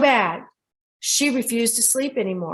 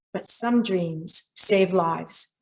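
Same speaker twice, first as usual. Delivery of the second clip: slow sign-off; 3 semitones lower, 4 dB quieter, much slower than usual. Real, not acted. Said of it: "show closing line".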